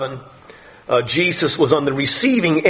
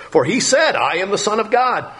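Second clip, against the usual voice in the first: mocking priests; 5 semitones higher than usual. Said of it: "also mocking".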